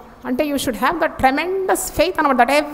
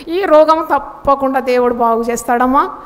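laughing reassurance. Real, not acted. Laughing while reassuring congregation.

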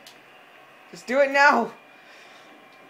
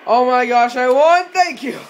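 shrieking jackpot winner; 7 dB louder than usual. Real, not acted. Winning the match at the end.

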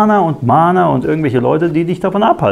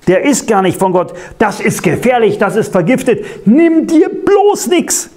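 milder gespielter Warnruf, teils deutlich höher; gespieltes Warnschreien; 3 semitones higher than usual. Acted. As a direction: den Gläubigen hammed-up warnen, Nimm dir bloß nichts ganz hoch und gedehnt. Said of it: "er schreit". (leicht gespieltes Schreien des Feindes, der vor dem Tisch warnt)

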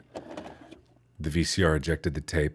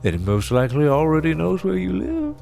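ominous narrator; 5 semitones higher than usual. Acted. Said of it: "a male voice was narrating".

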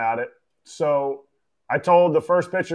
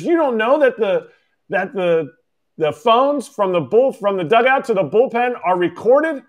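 angry scolding; 4 semitones higher than usual. Retold or imitated. Manager scolding catcher about recorded phones, angry. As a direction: berate him like he should know better. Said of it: "He's pissed".

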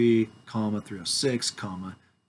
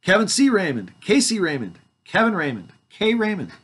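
rattling off the names in a higher mock tone; mocking list; 8 semitones higher, 5 dB louder than usual. Mocking the name variants for the witnesses. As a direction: make fun of every name variant. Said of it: "You guys see how silly this is?".

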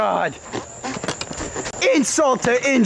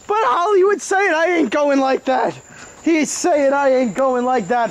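wrestling commentator; 2 semitones higher than usual. Acted. Continues play-by-play.

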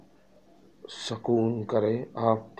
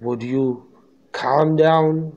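louder, higher indignant question; angry father; 5 semitones higher, 5 dB louder, much slower than usual. Acted. Angry father challenging the doctor, loud and raised. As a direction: fling the question back in outrage. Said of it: "said the father angrily".

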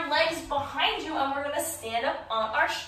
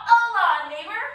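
cheerful aloha; 5 semitones higher, 8 dB louder than usual. Shown as a demonstration. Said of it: "The other front doggy paw".

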